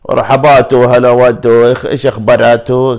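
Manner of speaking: loud, playful fake Italian with -atu endings; mock Italian. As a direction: tack a sing-song Italian ending onto Arabic words. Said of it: "كل شيء يجي يحط فيها آتو في الأخير".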